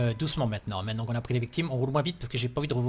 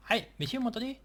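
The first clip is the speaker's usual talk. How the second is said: calling out; 9 semitones higher than usual. Acted. Calling to patients.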